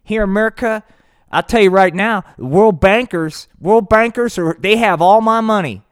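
loud, high ranting patriot; high, loud blowhard rant; Hank. Acted. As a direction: yell it like a riled-up podcast host. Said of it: "that's Hank".

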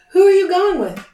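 loud, high call after someone walking away; calling after her. A narrator's reading. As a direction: call out before you can stop yourself. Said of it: "Harry called after her".

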